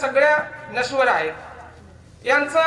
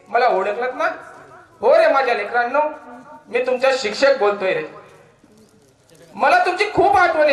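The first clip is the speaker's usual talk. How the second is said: emotional poem recitation. Acted. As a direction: recite it like a teacher calling to his lost pupils. Recites his own poem. (भावपूर्ण कविता वाचन)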